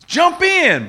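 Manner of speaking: high, drawn-out luring call; imitating strong men. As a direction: coax loudly as a creature from the water. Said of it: "their voice sounded like grown, strong men".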